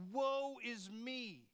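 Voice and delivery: slow, drawn-out woe of a man undone; crying out in dread. Retold or imitated. Isaiah cries out before God, slow and stricken. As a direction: let the words stretch in despair. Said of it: "he cries out".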